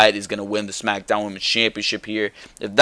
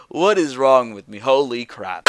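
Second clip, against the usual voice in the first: laughing at himself. Real, not acted. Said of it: "I can't take myself seriously".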